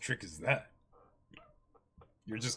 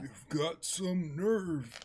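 slow character threat; 5 semitones higher, slower than usual. Acted. Voicing a pirate character.

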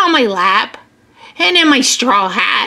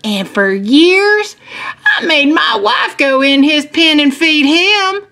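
lilting anecdote with high peaks; lightly voiced farmer telling on himself; confiding farmer; 6 semitones higher than usual. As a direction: share a funny confession with kids. Farmer tells goat story.

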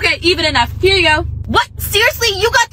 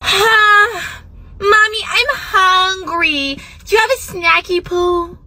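put-on babyish whine; slower than usual. Toddler begs mom for snack.

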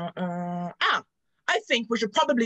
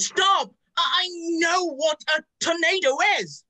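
higher, louder irritated outburst; irritated shout; 6 semitones higher, 5 dB louder than usual. Acted. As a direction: cut off the know-it-all. Annoyed at friend's lecture.

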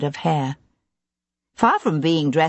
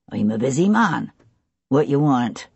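lightly voiced West Country tavern keeper; a hint of West Country in a brusque tavern keeper; narrator's light West Country accent for the tavern man; 4 semitones lower than usual. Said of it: "The accent surprised Sebastian. It was West Country".

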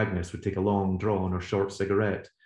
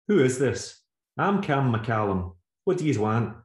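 suspicious stranger; 5 semitones higher, 4 dB louder than usual. Acted. Stranger answers the phone gruffly.

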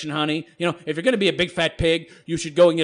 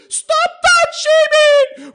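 much higher, loud, slow shriek; mock screech; 8 dB louder, much slower than usual. Vlogger reading an all-caps comment aloud, mocking screech. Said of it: "I'm gonna have to screech".

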